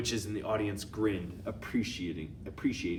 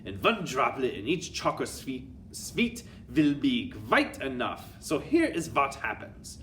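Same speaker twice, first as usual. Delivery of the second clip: commanding witch with a put-on accent; Grand High Witch; 4 semitones higher, 5 dB louder than usual. Grand High Witch addressing her witches, commanding put-on accent.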